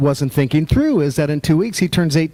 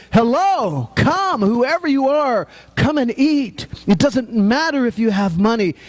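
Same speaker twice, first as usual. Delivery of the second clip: higher, eager calling out; excited voice of God; 6 semitones higher than usual. Retold or imitated. God inviting everyone to the feast, excited and higher. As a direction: throw the invitation wide open, eager. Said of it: "an excited voice of God saying".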